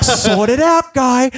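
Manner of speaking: hammed-up telling-off of the guitarist; mock angry yell at bandmate. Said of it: "So I'm like".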